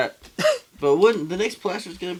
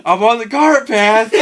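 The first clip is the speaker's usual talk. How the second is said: louder, slow, exasperated insistence; hammed-up outraged golfer; mock indignant protest; 4 semitones higher, 8 dB louder than usual. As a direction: stretch it out like a golfer fed up with the rules. Imitating Blake protesting angrily.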